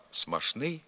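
смашний with ш; шн pronunciation. Shown as a demonstration. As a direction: say смашний with a plain ш. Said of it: "вимовляються і слова".

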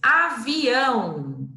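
drawn-out, syllable by syllable; slow reading. Shown as a demonstration. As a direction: stretch the word out for children. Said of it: "teacher reads word slowly".

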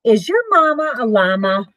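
lively storybook read-aloud; reading to children. Acted. Parent reading a picture book to the kids, lively. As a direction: read it bright and sing-song for little ones.

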